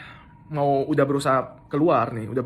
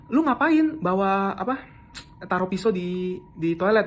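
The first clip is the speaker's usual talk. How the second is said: retold furious question, pitched up; angry accusation; 6 semitones higher, slower than usual. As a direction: confront him slowly and hotly. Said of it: "Dia dengan muka marahnya gitu ya".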